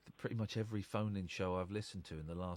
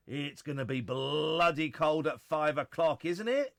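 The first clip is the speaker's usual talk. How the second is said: louder and slower for emphasis; emphatic; 6 semitones higher, 10 dB louder than usual. Real, not acted. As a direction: lean on bloody cold. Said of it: "repeated louder, slower".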